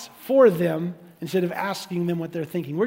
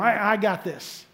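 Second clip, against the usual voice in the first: smug self-mockery; 2 semitones lower than usual. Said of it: "We have to make sure that we don't".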